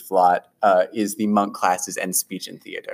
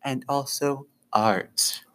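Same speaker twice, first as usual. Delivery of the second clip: slow, soft, dreamy floating voice; airy air genasi; 2 semitones higher, 5 dB quieter, slower than usual. Acted. Floating air genasi teacher introducing herself, slow and soft. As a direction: drift through it like a breeze. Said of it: "and she says".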